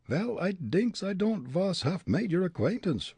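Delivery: put-on high, calm Dutch-accented reply; cool Dutch-accented retort. Fritz answering the bully, unbothered Dutch accent. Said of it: "Fritz replied".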